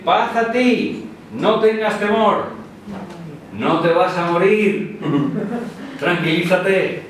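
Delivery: slow, soothing reassurance; slow down and calm him. Acted. God reassures frightened Gideon, slow soothing voice. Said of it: "Pero Dios le dice".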